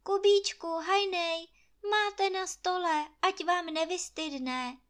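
Anče calling. Acted. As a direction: call them in to dinner, bright and high. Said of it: "strčila do dveří hlavu Anče a povídá".

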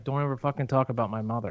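retold threat, fast, in a light French accent. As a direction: snap it out fast like an angry Frenchman. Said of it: "In a French accent, of course".

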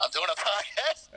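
retold reply with a rising, questioning end; repeated answer. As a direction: say it up, as if it were obvious. Repeats answer to incredulous guard.

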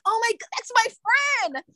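high, frantic pleading; panicked friend at the door. Retold or imitated.

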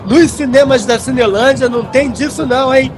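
hawking tickets to passers-by; street barker. Acted.

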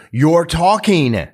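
put-on high, loud, drawn-out kid protest; complaining little boy. Boy interrupts mother wanting snuggles.

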